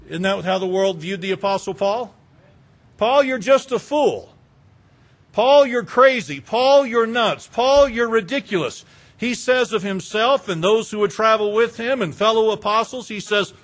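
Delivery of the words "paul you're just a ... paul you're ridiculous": mocking jeer. How the world viewed Paul.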